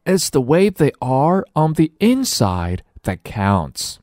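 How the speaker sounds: put-on high, slow, earnest child; high-pitched young heroine; eager little girl. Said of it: "says Nellie".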